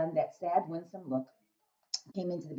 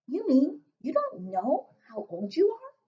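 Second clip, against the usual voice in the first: put-on little girl voice; 11 semitones higher, 5 dB louder, slower than usual. Sophie asking.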